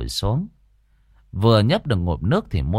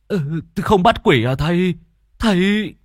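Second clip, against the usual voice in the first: alarmed plea; 9 semitones higher, 4 dB louder than usual. A narrator's reading. Frightened host pleads with exorcist.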